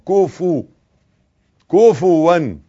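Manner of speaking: كفوا spoken ku-fu-wan; double damma. Shown as a demonstration. Teacher drilling the vowels, كفوا with two clear u sounds. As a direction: round the lips for u on both kaf and fa in كفوا. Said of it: "الكاف عليها ضمة والفه عليها ضمة".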